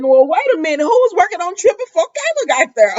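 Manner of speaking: high, loud, incredulous questioning; loud incredulity. Real, not acted. Viewer challenging a plot hole about who worked on Trip, loudly incredulous. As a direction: call out the nonsense at a high pitch.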